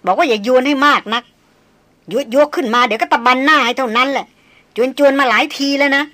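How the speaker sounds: scornful threat. Acted. Darin daring Chayan to a fistfight, loud and scornful. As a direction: square up to him with open scorn. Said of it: "บอกเสียงแค่นๆว่า".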